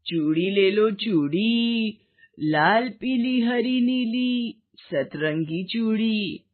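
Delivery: slow, drawn-out sing-song hawker call; street hawker call. Acted. Old bangle seller calling to the street, slow sing-song cry. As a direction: call out bangles to passers-by, stretching each word.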